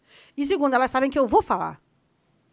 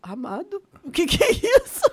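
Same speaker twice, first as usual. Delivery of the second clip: incredulous wife; 5 semitones higher, slower than usual. Retold or imitated. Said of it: "E eu".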